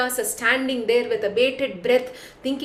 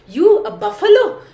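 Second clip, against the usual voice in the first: louder and higher, laughing at him; mocking laughter, raised; laughing scorn; 7 semitones higher, 7 dB louder than usual. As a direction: laugh it out in open mockery. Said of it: "just laughs and says".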